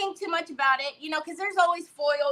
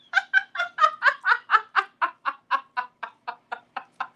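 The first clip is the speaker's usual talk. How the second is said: long high cackle sliding downward; exaggerated descending ha-ha-ha; imitated laughing fit; 7 semitones higher than usual. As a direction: mimic an endless laugh, starting high.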